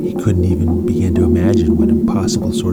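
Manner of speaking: lightly dramatic storybook reading; story narration. A narrator's reading. Narrator reading a space adventure to listeners, lively storytelling. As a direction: tell it like a bedtime adventure.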